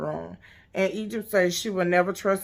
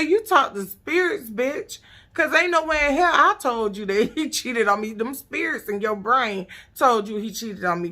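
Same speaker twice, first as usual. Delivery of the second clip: laughing retelling; 4 semitones higher than usual. Retold or imitated. Retelling T T's comeback to Pepper, laughing hard. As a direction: quote T T while cracking up. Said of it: "I almost fell out my goddamn bed".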